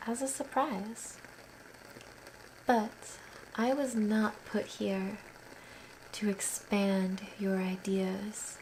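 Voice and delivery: measured poem recital with long pauses; unhurried, even-toned verse reading; poetry reading. Acted. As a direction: read it line by line, letting each phrase settle. Reads own poem aloud.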